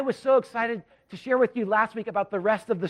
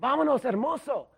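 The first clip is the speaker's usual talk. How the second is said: higher, eager call of "Vámonos, hermoso"; excited blurt; 5 semitones higher than usual. Retold or imitated. Freshman calling to his friend at kickoff, excited. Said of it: "But in my excitement".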